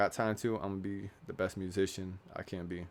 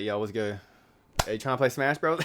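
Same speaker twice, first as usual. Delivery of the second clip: hyped bro greeting; 3 semitones higher, 6 dB louder than usual. Retold or imitated. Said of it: "I'm like".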